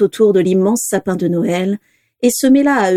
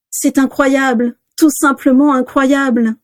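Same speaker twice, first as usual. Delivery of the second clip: higher, slow wonder; marvelling; 6 semitones higher, slower than usual. A narrator's reading. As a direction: linger on it in amazement. Ted marvels at twenty boarders.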